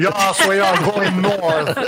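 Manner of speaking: hammed-up German accent; slow German submarine captain accent; movie villain german accent. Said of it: "doing my German accent".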